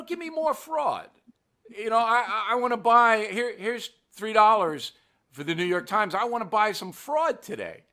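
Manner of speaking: hammed-up sucker pleading to be fed lies; mocking gullible news buyer. Host mocking newspaper readers, in an eager high mock voice. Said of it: "Yet some people will say".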